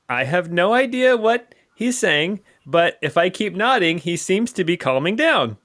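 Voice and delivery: high-pitched goblin voice; scheming gobloid. Acted. Gobloid humouring a captor he cannot understand, scheming. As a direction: think aloud as a nervous little goblin.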